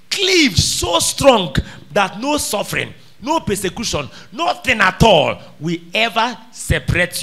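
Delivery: slow ringing proclamation. Acted. Climax of the cleaving point.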